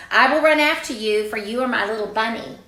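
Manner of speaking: lightly voiced resolute mom; mother declaring. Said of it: "So she says".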